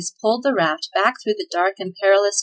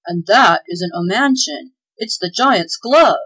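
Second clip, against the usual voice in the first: slow, louder alarm rising to the end; slow dawning fright, building louder; growing alarm; 5 dB louder, slower than usual. Acted. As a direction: spell out the danger, getting louder. Claus realizes the danger.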